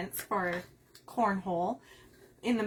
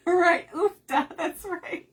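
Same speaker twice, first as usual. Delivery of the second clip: slow stretched Minnesotan vowels on oofda; Minnesotan accent; 7 semitones higher, 7 dB louder, slower than usual. Shown as a demonstration. Crafter demoing Minnesota speech for chat, Minnesotan accent. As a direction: lean into the Minnesota long O's. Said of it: "We elongate our letter".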